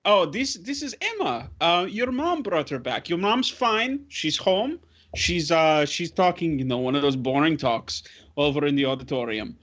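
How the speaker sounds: put-on lifted, reassuring talk to kids; kindly adult to children. Grudek introduces Emma to the kids, reassuring. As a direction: explain it gently to little ones.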